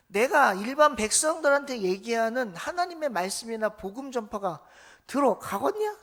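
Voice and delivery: scolding Jesus. Retold or imitated. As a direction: scold them like a fed-up teacher. Jesus voiced scolding disciples. (제자들을 꾸짖는 예수님, 답답한 호통)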